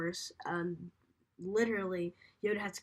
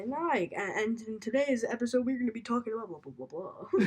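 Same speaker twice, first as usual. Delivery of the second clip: podcast host impression; 2 semitones higher, 4 dB louder than usual. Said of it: "that's what you sound like".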